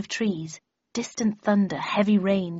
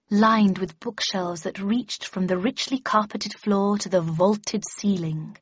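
slow, expressive recitation; expansive reading aloud; slower than usual. A narrator's reading. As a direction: let each phrase spread out slowly. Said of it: "expressive and expansive".

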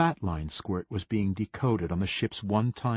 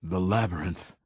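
firmer, fuller, steadier; stronger voice. Acted. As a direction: repeat it with more strength. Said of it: "he said again, voice stronger".

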